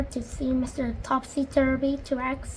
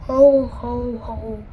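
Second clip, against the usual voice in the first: hollow ho-ho-ho fading out; mournful laugh; 7 dB louder, much slower than usual. A narrator's reading. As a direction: try to laugh but sound heartbroken. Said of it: "she added mournfully".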